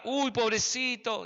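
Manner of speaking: slow, drawn-out "poor little thing"; mock pitying. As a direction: coo with exaggerated sympathy. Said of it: "queremos que venga Dios y nos diga".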